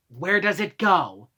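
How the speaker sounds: drawn-out, condescending question; talking down. Retold or imitated. Manager asking where the dishware goes, talking down slowly. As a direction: ask it very slowly, as if to a small child. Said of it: "talking down to me like I'm fucking two".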